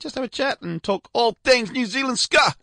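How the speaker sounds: lightly hammed-up New Zealand accent; mock New Zealand accent. Radio host jokingly introduces his Kiwi guest in a mock New Zealand accent. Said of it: "that's my New Zealand accent".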